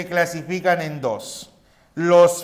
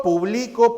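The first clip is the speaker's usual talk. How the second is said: "publico" stressed on BLI; higher "publico", leaning on BLI; stress on middle syllable; 4 semitones higher than usual. Shown as a demonstration. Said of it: "El acento señala a la mayor fuerza de voz".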